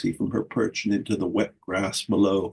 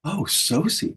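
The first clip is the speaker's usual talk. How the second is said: squealing; 7 semitones higher, slower than usual. A narrator's reading. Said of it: "squealed Teasel".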